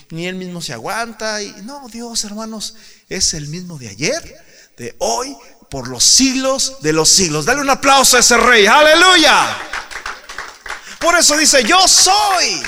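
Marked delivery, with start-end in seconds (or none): 3.1-12.6 loud, high, ringing proclamation; full-force preaching. Acted. Preacher proclaiming Jesus's words to the congregation, loud. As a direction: thunder it out to the church.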